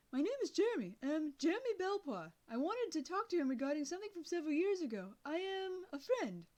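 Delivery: put-on boy phoning a stranger, loud and polite; loud on the phone. A narrator's reading. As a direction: project down the line politely. Calling a deaf old man.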